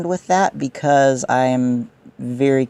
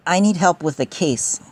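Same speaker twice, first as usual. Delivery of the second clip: robot voice; 4 semitones higher than usual. Real, not acted. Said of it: "I talk like a robot sometimes".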